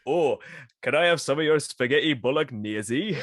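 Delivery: lightly put-on Welsh Trevor; Welsh accent. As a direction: attempt a mild Welsh accent. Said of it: "he is Welsh".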